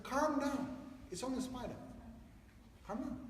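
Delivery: calming parent. Retold or imitated. Retells calming crying daughter.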